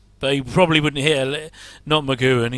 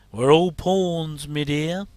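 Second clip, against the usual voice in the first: laughing mock villain; much slower than usual. Repeats the catchphrase laughing, drawn out.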